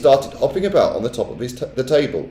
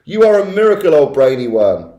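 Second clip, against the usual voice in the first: high, loud cheering voices; excited cheering; 11 semitones higher, 5 dB louder than usual. A narrator's reading. Witch audience praising the Grand High Witch, loud excited cheers. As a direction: cheer in wild delight.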